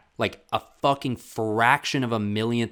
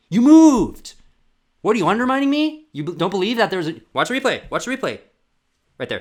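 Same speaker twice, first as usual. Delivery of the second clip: put-on high, loud, furious old linesman; ranting linesman; 9 semitones higher, 9 dB louder than usual. Vlogger acting a rude linesman yelling at a runner, furious mock yell. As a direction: bellow at the runner like a rude referee. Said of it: "And he went".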